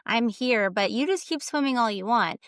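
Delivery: a hint of a patient, all-knowing universe talking; lightly voiced universe. The universe watching someone swim upstream, lightly voiced. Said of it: "the universe is basically just watching me swim upstream and go".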